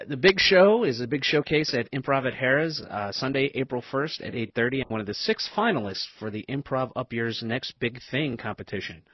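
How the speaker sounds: upbeat radio announcer plug. Real, not acted. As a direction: pitch it up like a promo read. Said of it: "You have your announcer voice".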